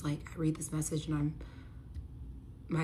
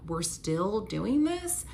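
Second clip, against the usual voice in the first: slow, drawn-out incredulous question; exasperated, can't-believe-it query; retold disbelief; 2 semitones higher, much slower than usual. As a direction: stretch it out into a rising question. Retold disbelief at continuing fight.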